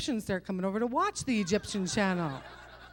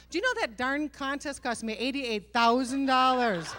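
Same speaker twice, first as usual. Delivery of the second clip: building to a louder, indignant finish; exasperated outburst; 2 semitones higher, 6 dB louder than usual. Acted. Comedian totals what winning cost her, exasperated outburst. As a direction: play up outrage, punching the final sum. Exasperated climax of mounting costs.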